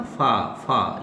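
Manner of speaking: फा said as a separate syllable with a long open vowel; isolated phoneme. Shown as a demonstration. Teacher splitting father into its sounds, sounding out फा by itself. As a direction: sound out फा on its own, then repeat it. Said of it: "इसमें दो आवाज़ें हैं ना".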